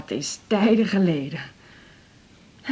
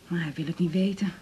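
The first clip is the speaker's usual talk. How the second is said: hushed confiding; 2 semitones lower, 7 dB quieter than usual. Acted. Mother confiding about son Hein.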